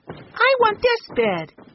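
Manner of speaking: slow, high, eager yell. A narrator's reading. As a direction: call it out, claiming the bed. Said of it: "he yelled".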